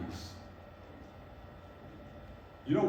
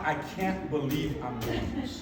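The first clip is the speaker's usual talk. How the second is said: inner disbelief; 3 semitones lower, 4 dB quieter than usual. Retold or imitated. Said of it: "Like, in my mind".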